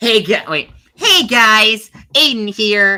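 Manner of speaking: put-on squeaky voice. Doing a mock video intro for season two, in a squeaky voice. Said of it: "Squeaky, squeaky voice Aiden here, actually".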